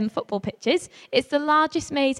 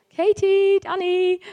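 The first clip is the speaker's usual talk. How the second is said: higher, louder call across the maze; 8 semitones higher, 3 dB louder, slower than usual. Retold or imitated. Leader calling the two lost girls, loud. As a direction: shout their names into the hedges.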